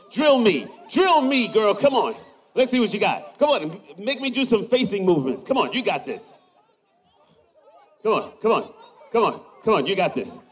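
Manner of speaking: egging her on to perform; cheering someone on. Real, not acted. Cheering veteran to do drill.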